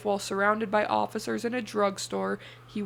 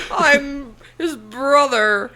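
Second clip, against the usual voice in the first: put-on old-timey swindler voice; 3 semitones higher, 10 dB louder, much slower than usual. Joining the swindler bit.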